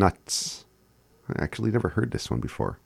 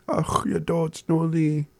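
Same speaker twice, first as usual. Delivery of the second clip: high, slow, whimpering sad voice; sad demo; 10 semitones higher, slower than usual. Shown as a demonstration. Teacher showing learners how to sound sad. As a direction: say it like a sad puppy. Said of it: "To sound sad".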